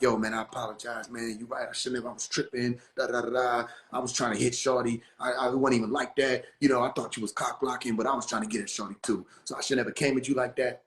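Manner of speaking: low, soft, apologetic murmur of a quote; subdued retold phone apology. Retells Atmos phoning to apologize.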